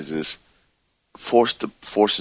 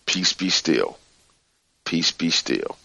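calming mantra; 2 semitones lower, 4 dB quieter, slower than usual. Shown as a demonstration. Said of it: "whatever you need to say".

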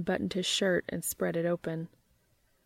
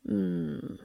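pleased purr. A narrator's reading. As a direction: hum it with pleasure. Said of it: "purred Dean".

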